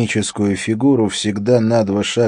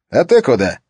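surprised question; 6 semitones higher, 6 dB louder than usual. Acted. Colleague calls after Harry.

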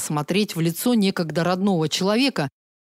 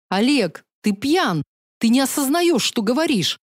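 pleading; 5 semitones higher than usual. Acted. Sister pleads with drunk brother.

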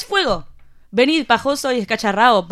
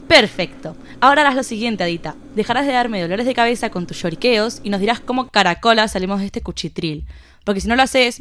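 menacing interrogator. Acted. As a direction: lean in and threaten her.

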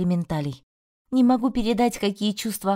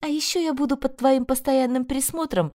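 bitter smirk; 7 semitones higher than usual. A narrator's reading. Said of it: "горько усмехнулась я".

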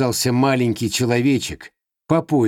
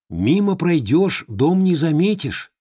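creature voice; 6 semitones higher than usual. Acted.

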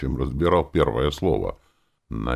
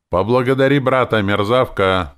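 loud, higher jeering order; mocking tone; 7 semitones higher, 7 dB louder than usual. A narrator's reading. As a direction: sneer it at her, louder. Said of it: "проговорил я издевательским тоном". (громкая издёвка, выше обычного)

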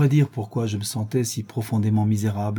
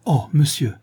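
a raised, alarmed «Oh, monsieur!»; urgent exclamation; 3 semitones higher, 3 dB louder than usual. Acted. Nelly cries out to Mr Linton entering, urgent exclamation. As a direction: cry out in relief and alarm as he enters. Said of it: "m'écriai-je".

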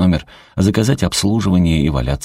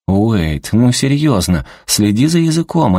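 scolding; 6 semitones higher, 3 dB louder than usual. A narrator's reading. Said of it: "одёрнула его Анита".

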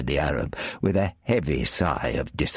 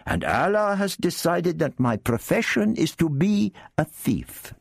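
much higher, wheedling Arab character; Arab thief voice; 13 semitones higher than usual. Acted. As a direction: lift the voice high for the sly Arab.

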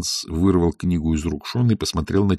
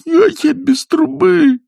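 panicked; 6 dB louder, slower than usual. Acted. Panicked boy, king arrives.

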